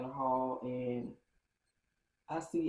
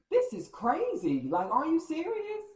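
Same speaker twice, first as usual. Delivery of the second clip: loud, high, stretched-out disbelief; acted-out exasperation, pitch soaring; incredulous outrage; 12 semitones higher, 4 dB louder than usual. Acting out outrage at the discovery.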